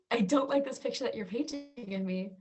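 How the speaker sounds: amused mock offense; laughing protest. Answering mom's jab, laughing in mock protest.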